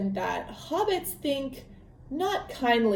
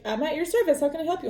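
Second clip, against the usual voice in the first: higher-pitched, lightly acted courteous host; polite Bilbo; 6 semitones higher, much faster than usual. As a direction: offer help with mock politeness. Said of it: "But he's polite".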